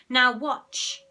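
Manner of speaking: slow commanding hypnotist. A narrator's reading. Henry as hypnotist orders Ralph, slow and commanding. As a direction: drag it out to entrance him. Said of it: "ordered Henry, the hypnotist".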